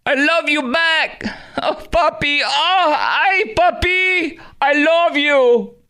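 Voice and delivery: very high, drawn-out mock Latina accent; mock Hispanic accent. Host parrots the clip back, high exaggerated Hispanic accent. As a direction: squeal it like a gushing Latina caricature, heavy accent. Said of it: "her fake Hispanic accent today".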